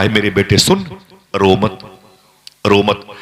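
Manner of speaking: a mother soothing her son, lightly voiced; tender comforting. Dying mother comforts weeping son.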